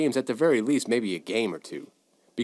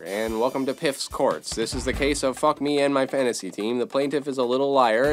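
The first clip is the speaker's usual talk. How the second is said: hammed-up announcer parody of a TV court show; mock court show announcer; 3 semitones higher, 4 dB louder than usual. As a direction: open the show like a cheesy daytime court program.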